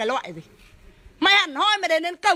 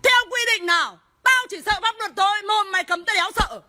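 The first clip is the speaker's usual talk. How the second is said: angry challenge; 3 semitones higher than usual. Real, not acted. Challenging officer's ban on livestreaming.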